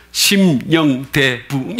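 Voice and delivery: drawn-out, letter by letter; slow banner read. Shown as a demonstration. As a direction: spell out the banner slowly. (현수막 글자를 한 자씩 느리게 읽듯)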